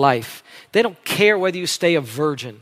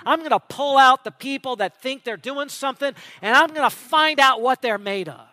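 throwing down the gloves; 5 semitones higher than usual. Acted. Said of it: "he just threw down the gloves".

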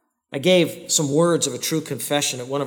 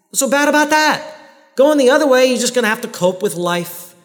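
fervent preaching; 6 semitones higher, 5 dB louder than usual. Real, not acted. Preacher rising in fervour.

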